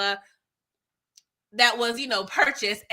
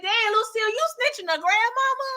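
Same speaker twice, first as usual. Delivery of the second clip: laughing disbelief; 8 semitones higher than usual. Real, not acted. Viewer scolds character for snitching.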